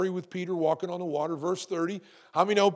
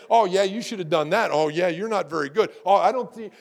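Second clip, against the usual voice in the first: a hint of a sneering heckler, louder; mocking critic; 6 dB louder than usual. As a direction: jeer lightly from the back seats. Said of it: "sit in the background and say".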